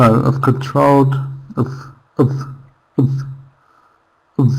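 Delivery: "of" as a short weak uhv; reduced I've. Shown as a demonstration. Teacher drilling the reduction, "of" tiny and weak. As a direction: clip I've down to "of", no I sound. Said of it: "we might not even use".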